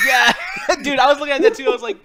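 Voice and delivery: loud, high laughing shout; excited shout. Real, not acted. Friend shouting agreement about the guitar joke. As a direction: blurt it out thrilled.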